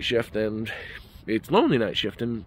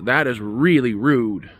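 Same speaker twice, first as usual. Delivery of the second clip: put-on slurred drunk; 3 semitones higher, 7 dB louder, slower than usual. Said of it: "her voice sounded slurred".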